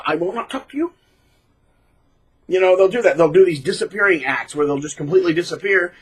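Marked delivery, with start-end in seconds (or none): 0.1-0.9 cold, distant put-on voice; mock stonewalling. Narcissist refusing to talk, mocked. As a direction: say it like a sulking brat.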